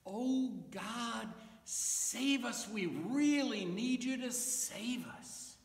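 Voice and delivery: high, urgent call to God; cheering plea. Acted. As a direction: cry out for rescue with confidence, lightly acted. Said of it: "people were cheering like God had".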